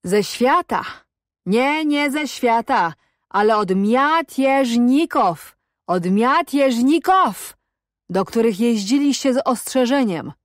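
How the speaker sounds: high, drawn-out words split by syllable; slow taunting. A narrator's reading. Cossack accuses captive of warning rebels, slow challenging taunt. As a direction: jeer slowly, stretching each syllable. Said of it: "Mówił zwolna. Dzielił sylaby wyrazów".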